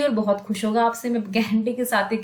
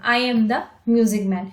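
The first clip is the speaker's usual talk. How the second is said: slow rhyme line; much slower than usual. Shown as a demonstration. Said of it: "तो इस poem को कैसे पढ़ाएंगे?".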